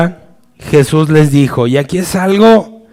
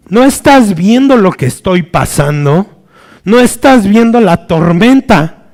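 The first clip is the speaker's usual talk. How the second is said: mock protest, why don't you see my storm; exasperated retort; 4 semitones higher than usual. A person in crisis answers the calm voice, indignant. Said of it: "la reacción será".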